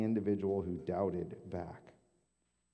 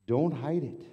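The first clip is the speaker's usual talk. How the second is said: higher and louder call; loud exhortation; 6 semitones higher, 6 dB louder than usual. Real, not acted. Pastor urging the congregation, loud call. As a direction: call it out to the room.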